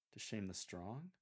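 "strong" lifted in a rising tune; puzzled italics on strong. Shown as a demonstration. Coach reads Paul's verse for lectors, puzzled stress on "strong". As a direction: lean on "strong" with a questioning rise. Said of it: "when you say strong, think of it as being in italics".

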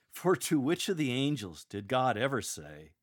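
direct, emphatic challenge; pointed cross-examination. Shown as a demonstration. Lector cross-examining the angels in court, pointed and direct. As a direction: put the question pointedly, slightly mocking. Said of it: "courtroom cross-examination".

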